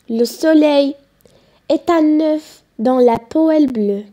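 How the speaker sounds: measured poem reading with pauses between phrases; deliberate classroom recitation. Acted. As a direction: recite the poem line by line, letting each image settle.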